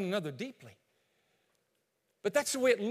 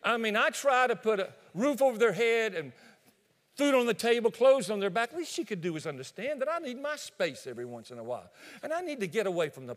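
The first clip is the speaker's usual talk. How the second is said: defensive husband. Acted. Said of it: "And John speaks up".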